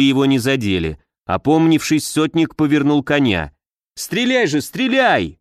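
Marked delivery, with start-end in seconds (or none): 3.9-5.4 high-pitched urgent command; urgent cry. A narrator's reading. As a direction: cry out the order, voice leaping up. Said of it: "закричал Богданов".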